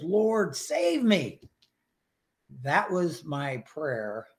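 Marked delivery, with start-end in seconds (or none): 0.0-1.4 high, desperate cry for help; lightly acted plea of sinking Peter; Peter's plea. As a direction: plead like a sinking man. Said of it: "he says".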